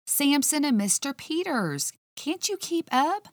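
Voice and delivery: high, sharp and impatient retort; snapped. Acted. Kat snapping at the officer who can't keep up, impatient high snap. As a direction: bite the words off, fed up with him. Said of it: "I snapped".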